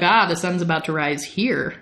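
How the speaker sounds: unbothered acted reply, falling at the end; breezy dismissal. Lestat brushes off Louis's sunrise worry, breezy and unhurried. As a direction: wave the worry away coolly.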